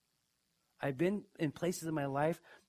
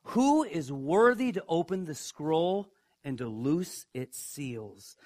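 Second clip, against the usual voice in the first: louder, ringing call across heaven; loud proclamation; 5 dB louder, slower than usual. Retold or imitated. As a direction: proclaim it like a mighty angel. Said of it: "proclaiming with a loud voice".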